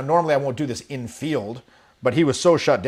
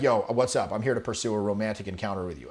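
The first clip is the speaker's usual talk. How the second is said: direct and confident; 5 semitones lower, 5 dB quieter than usual. Shown as a demonstration. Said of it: "to go like this is like".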